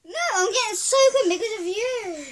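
high, loud laughing complaint; laughing protest. Real, not acted. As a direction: complain while cracking up. Laughing about getting soaked.

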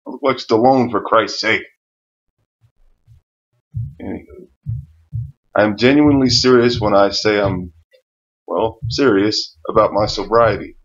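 numb, slurred mouth; after tooth extraction. Real, not acted. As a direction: speak around sore teeth. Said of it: "I'm talking kind of funny right now".

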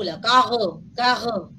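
"carro" with a rounded, u-like r sound; variant with U. Shown as a demonstration. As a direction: say "carro" with a u-colored r. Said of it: "ya es con la U".

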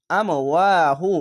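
"আম ওয়াহু", jolt on আম, long ওয়া; with a push. Shown as a demonstration. Teacher models it for learners, jolted then drawn out. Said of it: "ধাক্কা মেরে".

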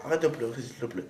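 soft pleading. Real, not acted. Begging crying friend to stop.

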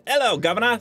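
a deliberately failed British accent; British accent done badly on purpose. Shown as a demonstration. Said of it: "I cannot pull off a British accent".

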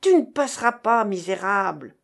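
loud cry of defiance; defiant shout. Acted. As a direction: yell to block his way. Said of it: "cria Gérard".

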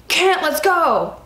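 guard yelling at the pregnant inmate to leave the chow hall; retold guard yell. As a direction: bark the name out like an impatient guard. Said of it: "he's yelling at me".

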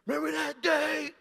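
loud, laughing mock friend voice; half-laugh it like reminiscing buddies; laughing old buddy. Old friends in Boston recalling prom night, laughing loudly. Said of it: "they be like".

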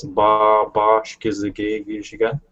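ba set apart before Bashkizigay for emphasis; reduplicated first sound. Shown as a demonstration. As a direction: double the opening ba of Bashkizigay. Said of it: "it's just reduplicating the first sound".

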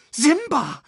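high croaking call; croaking bird. A narrator's reading. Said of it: "krächzte Sasu". (krächzender Vogelruf)

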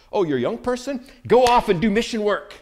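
mildly mocking churchy cheer; mock church voice. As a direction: toss it off like a cheery church cliché. Mocking what churches tell youth.

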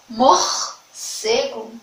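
"Morcego" very slow, the middle R rasped; slow R demo. Shown as a demonstration. Teacher repeating "Morcego" slowly for pupils. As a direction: stretch "Morcego" gently, syllable by syllable. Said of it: "No meio".

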